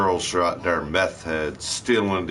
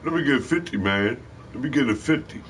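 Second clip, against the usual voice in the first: crackhead begging; 4 semitones higher, faster than usual. Retold or imitated.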